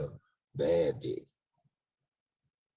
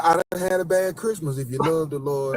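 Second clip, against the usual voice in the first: higher, louder pleading; mock begging plea; 9 semitones higher, 8 dB louder than usual. Beggar pleading outside the store, higher loud. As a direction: beg like a street preacher. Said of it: "I said".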